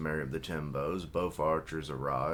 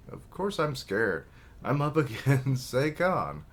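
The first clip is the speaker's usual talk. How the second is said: scared outburst; 7 semitones higher, 5 dB louder than usual. Acted. Character admits fear to brother.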